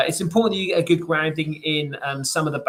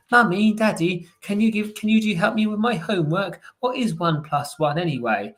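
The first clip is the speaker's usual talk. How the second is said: imitating a child; 4 semitones higher than usual. Young child asks parent for homework help, pleading kid voice. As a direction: play the eager child tugging at a parent. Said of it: "they'll give you your homework and go".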